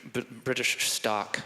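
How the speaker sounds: ordinary talk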